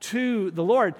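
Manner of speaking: I cried to the Lord drawn out slowly; slow solemn quote. Shown as a demonstration. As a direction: linger on each word of I cried to the Lord. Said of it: "David said".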